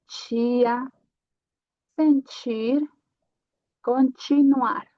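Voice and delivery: tia, sentir and continuar with ti said like chi. Shown as a demonstration. Teacher showing students that ti sounds like chi. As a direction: soften ti into chi. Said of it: "o som vai ser ti".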